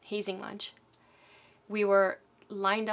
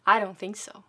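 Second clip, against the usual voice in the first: loud; 8 dB louder than usual. Retold or imitated. Drill instructor berates recruit.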